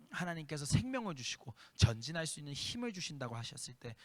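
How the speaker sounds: earnest, steady pastoral prayer voice; leading the church in a heartfelt closing prayer. Acted. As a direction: pray over the congregation, measured and sincere.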